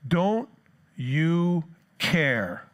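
emotional plea. Retold or imitated. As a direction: fling the question out hurt. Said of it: "the emotion of it".

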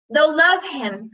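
high, slow, gushing with delight; rapturous cry. A narrator's reading. Aunt Petunia doting on her son, rapturous. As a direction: swoon over the words. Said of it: "cried Petunia rapturously".

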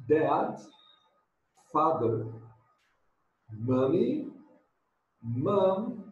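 slow, clear model words with pauses; pronunciation drill. Shown as a demonstration. Teacher drilling family words for students, slow and clear. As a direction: say each family word clearly for the class to repeat. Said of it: "Let's practice pronunciation".

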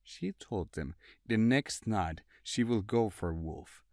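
usual speaking voice

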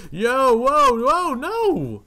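high, loud panicked yelp; alarmed shout. Real, not acted. Caught off guard by an attack, yelling in alarm. Sudden big dino attack.

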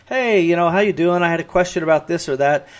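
a light, easy friendly read of your own message; nice friendly way. Retold or imitated. Writer reading own email to themselves, lightly friendly. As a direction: say it breezy and friendly, like to a pal. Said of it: "we say 'em in a nice, friendly way".

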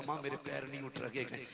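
very soft, fading words to mother; faint dying voice. Acted. Dying son tells his mother his feet won't move, very faint. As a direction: barely get the words out, dying.

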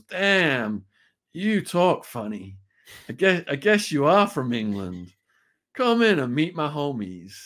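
a hint of the amused host sizing up a newcomer; imitated gang member's brother. Brother greets the British visitor at the door, lightly imitated. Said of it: "and he goes".

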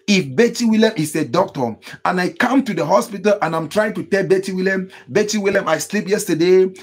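fervent preaching. Real, not acted. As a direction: drive the lesson home like a preacher. Preaches with doctor example.

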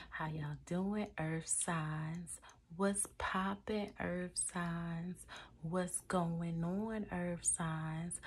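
playful, drawn-out roll-call greeting; silly. Real, not acted. Greeting the earth signs one by one, being silly. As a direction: stretch out the hellos playfully. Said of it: "I'm being really silly".

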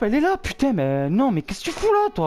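high panicked shouting; panicked yelling. Real, not acted. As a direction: yell in terror at the ghost. Ghost catches him, panicked yelling.

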